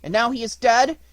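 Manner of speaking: high, loud distressed questioning; anxious puppet fearing bad news; great sorrow. A narrator's reading. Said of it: "interrupted Pinocchio with great sorrow".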